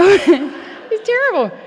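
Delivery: slow, laughing admission; laughing at her own sick thought; laughing, drawn out. Real, not acted. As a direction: stretch it out through a laugh.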